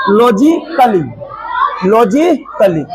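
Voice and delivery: "लॉजिकली" ending in short "klee"; silent A. Shown as a demonstration. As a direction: model "लॉजिकली" without sounding "ai". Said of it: "क्या हो गया?". ("लॉजिकली" में ए silent रखकर)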